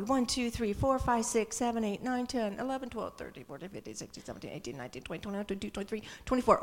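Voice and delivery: counting, fading to a hush. Shown as a demonstration. Preacher counting the congregation aloud. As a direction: count the congregation, dropping away. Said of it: "How many are we?".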